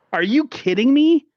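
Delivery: loud, high, exasperated outburst; indignant shout of disbelief; outraged disbelief. Acted. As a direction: blurt it out like you can't believe it. Outraged at fans accepting losses.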